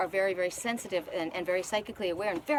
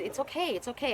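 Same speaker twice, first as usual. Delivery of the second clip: put-on gently calming a scared boy, a little higher; soothing reassurance; 4 semitones higher than usual. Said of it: "I was kind".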